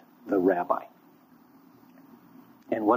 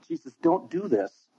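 pained Peter; 7 semitones higher, slower than usual. Acted.

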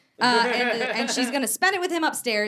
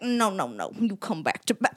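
lightly voiced prospector, a bit lower; old-timey prospector; 4 semitones lower than usual. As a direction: slip into a hint of prospector. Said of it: "he turned into a prospector".

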